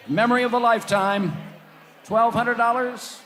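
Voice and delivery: auction bid calling; auctioneer. Acted. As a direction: call the bids like an auctioneer.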